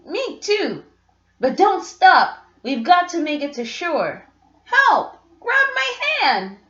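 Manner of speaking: put-on a child calling for help from the surf; urgent young boy. Jimmy calls to his dad in the waves, urgent high cry.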